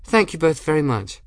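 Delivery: chipper, polite gratitude; cheerful. A narrator's reading. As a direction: say thanks brightly and cheerfully. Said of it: "cheerfully and said".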